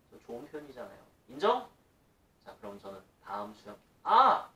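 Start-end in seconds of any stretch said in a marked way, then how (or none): 4.0-4.5 sharp high "아!" as if just remembering; real sudden recall; sudden realization. Real, not acted. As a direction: blurt it out as the thought hits you. Suddenly remembers a forgotten topic.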